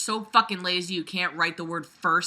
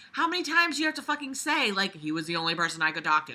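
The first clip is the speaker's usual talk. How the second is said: exasperated mocking quote; faster than usual. Real, not acted. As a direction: rattle it off in disbelief at the writing. Exasperated at repeated phrase.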